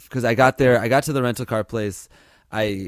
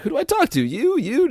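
much higher, playful charm offensive; mock-flirty smooth talker voice; smooth talking; 13 semitones higher than usual. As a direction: sweet-talk the agent for a free seat. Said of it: "really trying to be smooth".

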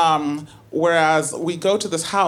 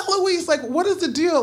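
exasperated; 10 semitones higher than usual. Retold or imitated. Exasperated question repeated.

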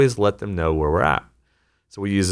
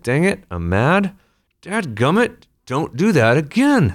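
higher, mildly exasperated boss; mock frustration; 9 semitones higher, 3 dB louder than usual. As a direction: huff it out like an annoyed leader. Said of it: "I'm frustrated".

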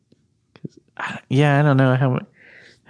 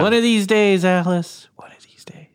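Ralph Kramden impression; 9 semitones higher than usual. Honeymooners quote, Ralph Kramden.

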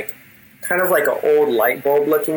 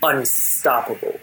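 unearthly king. Acted. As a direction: speak down to the generals as a menacing ruler. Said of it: "And with this unearthly voice".

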